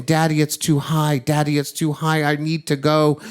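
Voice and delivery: mild, high-pitched plea to Daddy; retold weeping plea. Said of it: "She's just weeping".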